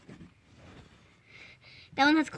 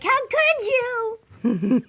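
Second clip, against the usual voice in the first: cat voice; 6 semitones higher, much slower than usual. Retold or imitated. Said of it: "looking at me like".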